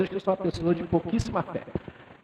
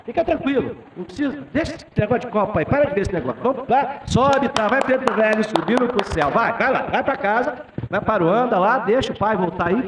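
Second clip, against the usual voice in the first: urging the spirit away; 5 semitones higher than usual. Retold or imitated. Sending the spirit up to heaven.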